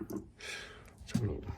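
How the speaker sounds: slow soft whisper; murmur, leaning in slowly. Real, not acted. Collector peering at a tool, slow whisper.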